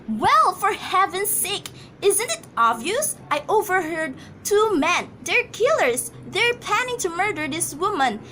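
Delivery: insisting in panic that it's obvious; exasperated alarm. Acted. Exasperated wife insists to operator.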